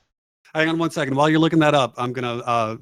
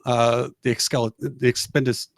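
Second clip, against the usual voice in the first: stuttering on a hard word; stumbling over the word; 3 dB quieter than usual. Real, not acted. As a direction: trip over the word and give up. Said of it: "I just gave up like Porky Pig".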